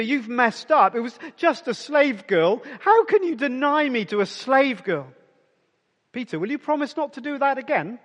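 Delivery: mock a preachy scold about behaviour; scolding lecture. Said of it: "Christians are obsessed about".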